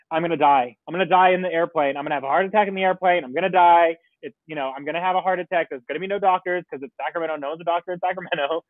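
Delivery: racing anxious inner voice; panicky. Retold or imitated. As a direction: rattle it off in a panic. Panicking in the airport terminal.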